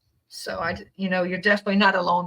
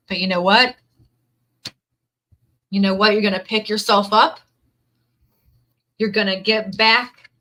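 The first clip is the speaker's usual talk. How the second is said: rousing pep talk; 4 dB louder than usual. Real, not acted.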